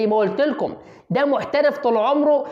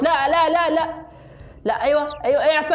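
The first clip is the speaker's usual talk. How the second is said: excited; 6 semitones higher than usual. Acted. Excited live commentary, snake attack.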